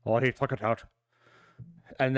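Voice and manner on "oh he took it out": a hint of Irish accent on the line. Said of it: "Irishy way that I can do it".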